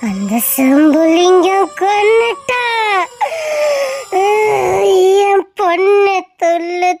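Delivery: slow, hollow, drawn-out curse; eerie vengeful ghost. Acted. Ghost grandmother cursing Sembulingam's family, slow and eerie. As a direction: drag every word out like a haunting.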